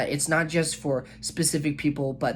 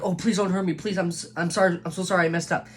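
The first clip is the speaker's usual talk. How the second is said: mock pleading, higher and hurried; trembling fear; 4 semitones higher, faster than usual. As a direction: play a cowering sinner begging not to be hurt. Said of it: "like, trembling fear".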